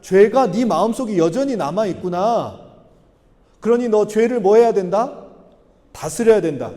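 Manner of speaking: lightly voiced God, admonishing at a deliberate pace; measured acted rebuke; God's reproach. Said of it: "가인에게 질책하시는 건 뭐냐면".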